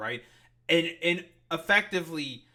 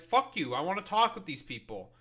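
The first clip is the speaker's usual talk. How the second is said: acted-out defiant demand, pitched up at first; indignant mock confrontation; defiant outburst; 4 semitones higher than usual. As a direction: play someone barging in and refusing to back down. Acting out a defiant congresswoman.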